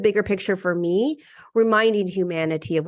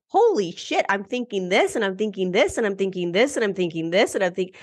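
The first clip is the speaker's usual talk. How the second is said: mock panicked realization. Acts out racing, crazy-making thoughts.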